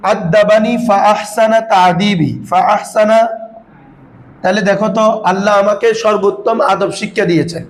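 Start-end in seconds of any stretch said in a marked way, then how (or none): 0.1-3.2 slow hadith recitation. Shown as a demonstration. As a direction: recite the Arabic slowly and carefully. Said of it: "যেমন আল্লাহ রসুল বলেন". (ধীরে হাদিস পাঠ)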